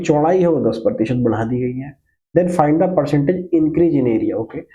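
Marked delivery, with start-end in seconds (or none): 2.3-4.4 slow, measured reading of the question; slow classroom dictation. Shown as a demonstration. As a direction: read it out word by word for the class. Reads the question out slowly.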